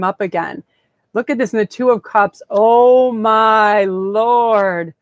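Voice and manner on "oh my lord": louder, struck with amazement at the card; awed gasp. Real, not acted. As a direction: blurt it out, genuinely stunned. Reacting to drawn tarot card.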